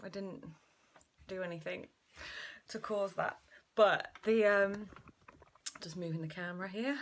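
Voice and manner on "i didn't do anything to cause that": out of breath. Real, not acted. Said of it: "I'm so out of breath".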